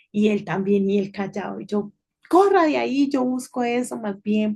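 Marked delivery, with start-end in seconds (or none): 2.3-4.5 impatient snap. Retold or imitated. Mom shooing her silent husband aside, loud irritated snap. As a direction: shoo him away, fed up and hurried.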